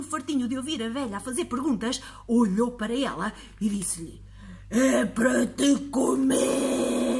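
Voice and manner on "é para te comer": slow, loud monster voice; slow monster threat. Acted. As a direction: growl it out as a warning. Monster's menacing reply.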